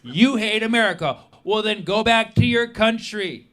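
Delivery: sneering, accusing troll voice; mocking troll. Commenter sneering at the comedian, accusing and mocking. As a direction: jab at him like an online troll. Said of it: "a message that says".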